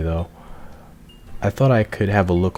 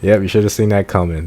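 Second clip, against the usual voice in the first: "should" leaned on, said louder; teasing jab; 4 dB louder than usual. Real, not acted. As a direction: rib them, a bit louder on "should". Teasing remark at the game.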